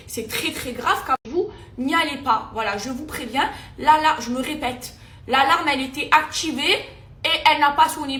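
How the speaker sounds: loud, heated, building outrage; venting fury at the alarm company, voice rising; angry rant. Real, not acted. Warning her followers off the alarm company, loud and angry. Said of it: "très énervée".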